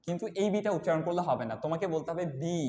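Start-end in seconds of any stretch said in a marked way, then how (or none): 2.4-2.6 "বি" with a long, drawn-out ee; teacher demonstrating a lengthened "বি"; loud, long B. Shown as a demonstration. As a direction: hold the vowel of "বি" firmly. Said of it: "loud হবে and এটা হচ্ছে long হবে".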